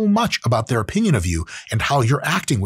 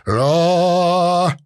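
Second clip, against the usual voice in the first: a short, higher, lightly voiced Peterson "Ah"; Jordan Peterson impression; 6 semitones higher, 3 dB louder than usual. Jordan Peterson appearing from nowhere, lightly voiced. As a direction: pop in as the pundit with one sigh. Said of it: "my Jordan Peterson impression".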